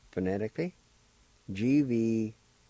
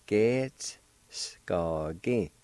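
Ge-ts-s-go-gin whispered slowly, syllable by syllable; whispered demo; much slower than usual. Shown as a demonstration. Teacher whispering Ge-ts-s-go-gin for learners to copy. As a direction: breathe Ge-ts-s-go-gin out in a slow whisper. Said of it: "like this".

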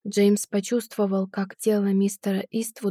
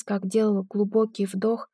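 ordinary delivery

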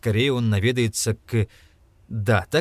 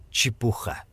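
ordinary delivery

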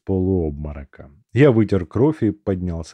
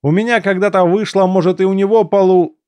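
fading voice; 10 semitones higher, 5 dB louder than usual. A narrator's reading. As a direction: voice dying away, cut off. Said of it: "мой голос затих на последнем слове".

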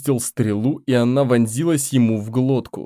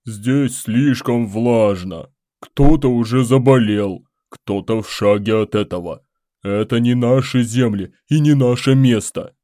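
rumbling complaint; 4 dB louder than usual. Acted. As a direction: grumble it out like a beast. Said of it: "проурчал один из обычных талуров".

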